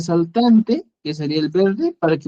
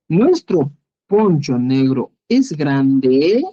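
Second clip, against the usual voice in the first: pregunta lenta; 3 semitones lower, much slower than usual. Shown as a demonstration. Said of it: "modela pregunta lenta".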